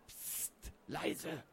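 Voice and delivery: sharp hush, then a soft warning. A narrator's reading. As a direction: shush someone so you can listen. Urgent hushing to listen.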